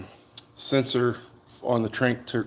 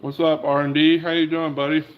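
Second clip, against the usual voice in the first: talking while chewing apple; words round a bite of apple; eating an apple; 3 semitones higher than usual. Real, not acted. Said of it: "Sorry, I'm eating an apple".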